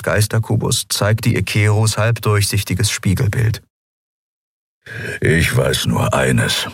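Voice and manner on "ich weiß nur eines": slow, low growling creature voice. A narrator's reading. Big furry helmsman growling at the captain behind him, slow and low. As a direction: growl it out slowly. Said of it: "hörte sie ihn hinter sich knurren".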